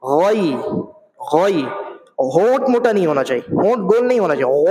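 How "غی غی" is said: غی said with a full-mouthed heavy غ, lips unrounded; full ghain. Shown as a demonstration. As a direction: fill the mouth for غ in غی. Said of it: "منہ بھر کر کے وہ غین کو ادا کرنا ہے". (منہ بھر کر غین ادا کرنا)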